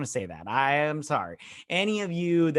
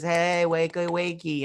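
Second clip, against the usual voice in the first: higher singsong wake-up call; mock wake-up call; 4 semitones higher, slower than usual. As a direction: coax someone awake, teasingly, higher. Rousing an unconscious woman in retelling.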